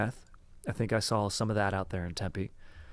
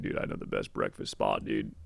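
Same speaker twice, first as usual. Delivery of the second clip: much lower dude-bro voice; imitating a deep voice; 13 semitones lower, 4 dB quieter than usual. Friend recommends a breakfast spot, deep imitated voice. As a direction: drop deep like a buddy vouching. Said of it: "He's got a deep voice".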